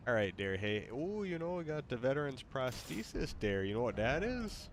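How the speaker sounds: put-on soft, playful Wisconsin accent; mock Wisconsin accent. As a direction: quietly put on a Wisconsin lilt. Copies the assigned Wisconsin accent.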